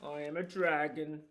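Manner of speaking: a dragon standing his ground, mildly voiced. Dragon insists.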